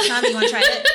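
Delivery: excited. Real, not acted. Laughing excited offer.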